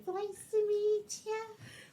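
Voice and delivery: put-on very high, pitched-way-up toddler baby talk. Mocking an imagined twenty-five-year-old woman introducing herself, imitating a baby voice. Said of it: "with like in a baby voice".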